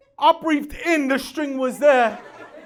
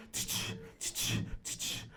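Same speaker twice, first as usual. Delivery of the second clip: mock clapping sound; 14 dB quieter than usual. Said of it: "I go around the corner".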